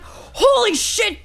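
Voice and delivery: high, drawn-out retold exclamation; mock shocked outcry. Storyteller voicing the reaction her roommate didn't have, mock shocked. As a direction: stretch it out slowly in mock shock. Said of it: "instead of being like".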